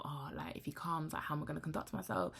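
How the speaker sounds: hushed, fast whisper to herself; whispered inner thought. Retold or imitated. Thinking to herself about meeting him, whispered. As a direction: whisper the worry under your breath. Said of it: "And I'm thinking to myself".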